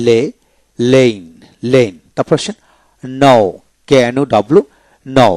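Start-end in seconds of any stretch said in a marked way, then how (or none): 5.1-5.3 নাও starting straight on n, no k; silent k. Shown as a demonstration. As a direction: begin নাও with the n sound. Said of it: "এখানে কে উচ্চারিত হবে না". (নাও, কে অনুচ্চারিত)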